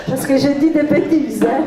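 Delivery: giggling through the words; laughing at herself. Real, not acted. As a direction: laugh it off, embarrassed. Laughs at own French mistakes. (en riant)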